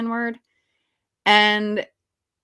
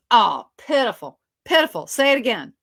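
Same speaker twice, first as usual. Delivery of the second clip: scornful director; 4 dB louder than usual. Retold or imitated. Imitating director rejecting her attempt.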